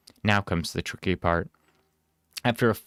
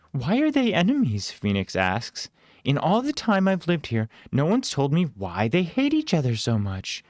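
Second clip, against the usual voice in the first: put-on curious young girl; 7 semitones higher than usual. Phoenix voiced in story.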